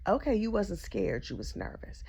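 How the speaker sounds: sarcastic aside. Real, not acted. Sarcastic aside on his word.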